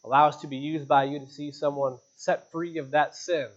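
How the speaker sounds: earnest pastor praying aloud to God; closing prayer. Real, not acted. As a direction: lead the congregation in heartfelt prayer.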